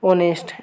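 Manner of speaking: ऑनेस्ट opening straight on the O vowel; silent H. Shown as a demonstration. Teacher answering own question on saying ऑनेस्ट, H silent. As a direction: drop the H from ऑनेस्ट entirely. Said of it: "क्या बोलेंगे".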